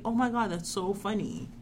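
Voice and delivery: put-on soft, prim, polite white girl voice. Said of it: "I was talking in this voice".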